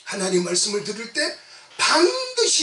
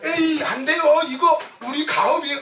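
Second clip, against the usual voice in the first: mock protest, higher pitched; acted protest; 7 semitones higher, 4 dB louder than usual. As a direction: push back as a reluctant fisherman. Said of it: "이러니까 어떻게 해요?".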